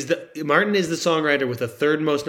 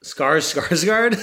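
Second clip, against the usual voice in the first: laughing; 3 semitones higher, 3 dB louder, slower than usual. Real, not acted. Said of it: "Skarsgård, yeah".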